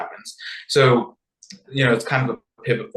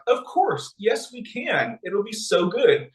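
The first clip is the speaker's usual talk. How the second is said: eager king; 8 semitones higher than usual. Retold or imitated. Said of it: "Ahasuerus is like".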